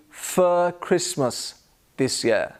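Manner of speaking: "for" said as weak "fuh"; teacher's model, "for" with neutral vowel and no r; schwa in FOR. Shown as a demonstration. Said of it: "move on to the word for".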